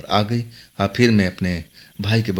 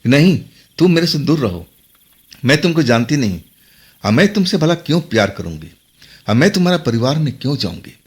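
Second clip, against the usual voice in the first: scolding; 3 semitones higher than usual. Retold or imitated. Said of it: "उस लड़के को डांटने लगी".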